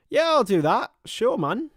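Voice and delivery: happy to take a viewer's request, said eagerly; eager reply. Real, not acted. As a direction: jump in eagerly to say yes. Answering chat request eagerly.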